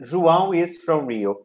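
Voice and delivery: "João is from Rio" in full, IS kept separate; modelled intonation. Shown as a demonstration. Teacher drilling the class on intonation, full form. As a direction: model "João is from Rio" evenly, falling at the end. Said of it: "you work on the intonation".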